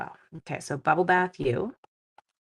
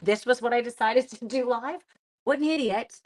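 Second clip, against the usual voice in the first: amused self-mockery, a little higher; giggling; 4 semitones higher than usual. Real, not acted. Mocking herself for doing this live, giggling. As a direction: giggle at your own silly choice. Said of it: "I'm giggling away because I'm like".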